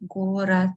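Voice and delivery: город with its d said as t; final D as T. Shown as a demonstration. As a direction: end город on a dull t. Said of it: "which I pronounce as".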